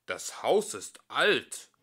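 slow, loud worried remark; the old house is creaking; grumbling resident. Acted. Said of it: "sagen sie oft".

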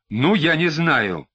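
usual speaking voice

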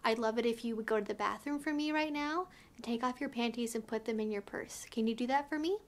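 quiet and commanding, close to the ear; soft low voice with quiet power; soft, low, powerful. Shown as a demonstration. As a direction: say it softly, low and firm. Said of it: "say really softly in, like, a low but kind of powerful voice".

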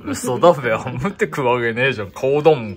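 loud disbelieving protest; incredulous. Real, not acted. Disbelief at eating fig skin.

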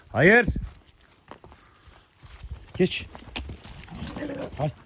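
high, loud barked no at a horse; commanding shout. Real, not acted. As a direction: stop the horse right now. (yüksek, sert bağırış)

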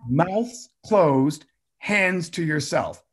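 slow, deliberate classroom chant; slow sing-song class rule; teacher cue. Shown as a demonstration. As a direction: say it like a kindergarten teacher. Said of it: "I looked and I go".

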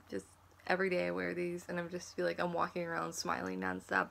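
talking over clip-on teeth; slightly thickened tooth fronts; speaking with veneers in. Real, not acted. Seen 0: inserted at -12; bright even teeth visible while talking after.

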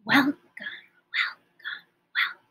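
softly said welcomes; hushed welcomes; quiet. Shown as a demonstration. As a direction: say it as quietly as you can. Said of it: "as quiet as we can".

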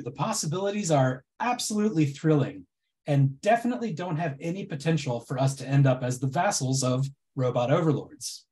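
dry mock reassurance; deadpan irony, tongue in cheek; sarcastic. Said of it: "my incredibly sarcastic presentation".

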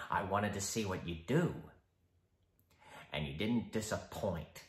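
low, quiet, menacing Joker; icy polite interrogator. Acted. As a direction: calmly needle him. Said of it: "the Joker".

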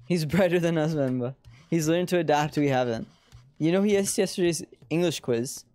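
put-on parent character in an Indian accent; lightly acted Indian accent. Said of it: "switching between, like, my American accent and my Indian accent".

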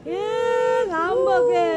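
mocking tease. Teasing the sulker.

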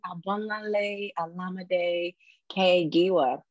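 slow, stretched echo of an announcer; imitating the introduction. Guest echoes host's fiery welcome, imitating the introduction. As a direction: draw out each name like a grand introduction. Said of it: "There was fire in that welcome".

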